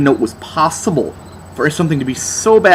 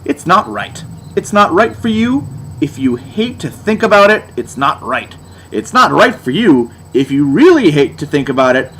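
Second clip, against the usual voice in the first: mock lyric recital. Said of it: "such deep lyrics as".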